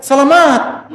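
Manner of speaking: "Selamat" as a high, falling wish; Arab blessing. Retold or imitated. An Arab blessing someone who is ill, mock kindly. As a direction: wish the sick person well the Arab way. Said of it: "Kalau ente lagi sakit".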